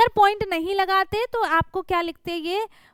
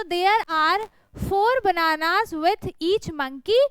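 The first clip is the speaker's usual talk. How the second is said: reading slowly; much slower than usual. Shown as a demonstration. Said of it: "reading the answer sentence slowly".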